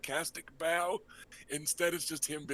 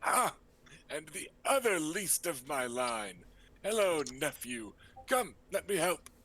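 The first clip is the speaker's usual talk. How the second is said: lightly raised, breezy uncle voice; flamboyant uncle. Acted. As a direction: play the charming rogue host.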